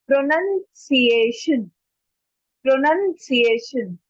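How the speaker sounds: "pronunciation" slowly, pro-nun-see-AY-shun; careful pronunciation. Shown as a demonstration. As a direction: sound out "pronunciation" syllable by syllable. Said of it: "ओ पे बहुत ज्यादा focus करते हैं". ("pronunciation" धीरे, प्रो-नन-सि-ए-शन)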